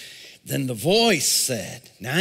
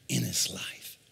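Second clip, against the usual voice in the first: lower, much softer breathy whisper; 7 semitones lower, 10 dB quieter than usual. Shown as a demonstration. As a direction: draw them in with a whisper. Hushing to show the whisper.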